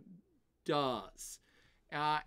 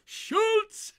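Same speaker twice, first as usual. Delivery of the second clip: much higher, louder comic shout of a TV sergeant; Schultz bark; 9 dB louder than usual. Retold or imitated. Streamer answers a chat's Hogan's Heroes joke, loud comic impression. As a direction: blurt the catchphrase name like the sitcom guard.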